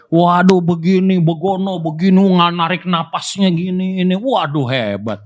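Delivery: high, hammed-up lecturing voice; mock know-it-all swimming teacher. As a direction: parody a teacher who only talks theory. Mocking talker instructor.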